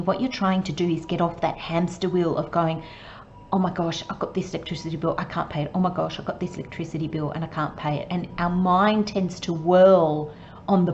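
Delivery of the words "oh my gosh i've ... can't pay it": quicker, softer fretting; fretful spiral. Retold or imitated. Worrier stuck on the hamster wheel, quick soft fretting. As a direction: rush through it like a worry loop.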